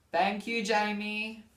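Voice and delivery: high, loud gushing thank-you. Real, not acted. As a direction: thank her with over-the-top delight.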